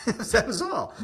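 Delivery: slow words squeezed out through real laughter; laughing. Real, not acted. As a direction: laugh while saying it. Laughing at his own story.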